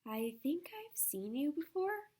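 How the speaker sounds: slow, dreamy and content. Acted. Girl waking under a tree, slow and dreamy. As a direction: drift through it, half asleep and content. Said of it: "spoke in a dreamy, contented sort of voice".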